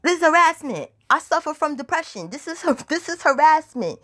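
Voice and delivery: high-pitched, acted-out hysterical protest; put-on panicked complaint; retold distressed screaming. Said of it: "crying and screaming".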